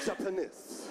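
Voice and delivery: low mock Japanese accent; deep Japanese man impression. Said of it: "it come from diaphragm".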